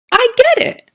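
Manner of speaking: high, loud, thrilled I get it; excited. A narrator's reading. Bird finally understands, excited and delighted. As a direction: burst out with sudden understanding. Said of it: "He said that with excitement".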